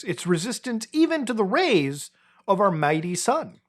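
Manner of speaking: grand, hammed-up announcer read; mock-heroic narration. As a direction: proclaim the silly legend as epic history. Reads bear legend in announcer style.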